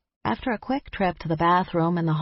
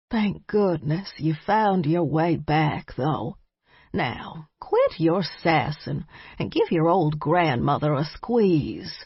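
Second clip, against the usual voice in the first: tender; slower than usual. Acted. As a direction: welcome home with love. Grandmother tender welcome.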